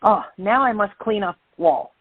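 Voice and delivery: light imitation of a thick Japanese accent; lightly put-on Japanese accent, dad's voice. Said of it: "with his thick Japanese accent and says".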